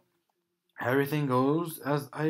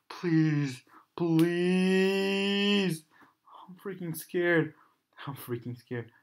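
scared whisper; 4 semitones higher, much slower than usual. Real, not acted. Whispered plea in fear.

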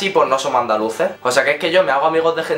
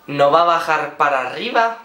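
mocking; slower than usual. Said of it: "el graciosillo madrileño que me dice".

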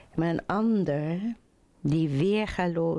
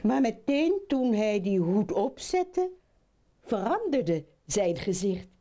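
put-on lively children's storytelling; animated fairy-tale narrator; story narration; 4 semitones higher than usual. A narrator's reading. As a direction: read it to children with rising, swinging lines.

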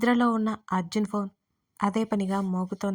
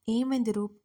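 ordinary delivery, nothing marked

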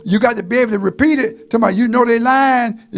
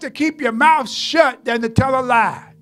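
preaching shout; 3 semitones higher than usual. Real, not acted. Preaching at full force.

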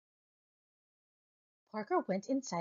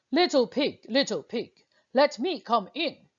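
big bad wolf; 7 dB louder than usual. Wolf calls at pig's door.

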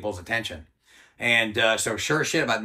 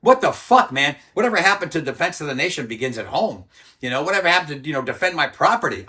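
retold outburst, much higher and louder at the start; blowing up; 5 semitones higher, 6 dB louder than usual. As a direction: explode at the commander in disbelief. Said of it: "And I just, like, blew up".

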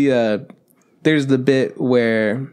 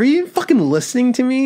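high mock yell of a deaf swordsmith; imitating a yell; 10 semitones higher than usual. Swordsmith yelling his conversation at Gintama. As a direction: belt it like he can't hear himself. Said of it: "the swordsmith just yells really loud".

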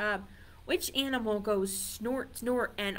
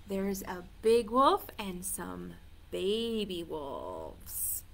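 ordinary delivery

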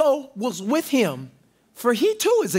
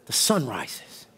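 Jesus, quietly; 5 semitones lower than usual. Acted. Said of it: "And he said".

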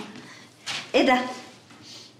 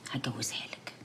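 teasing whisper; 10 semitones lower, 15 dB quieter than usual. Acted. Wife teasing husband, whispered aside.

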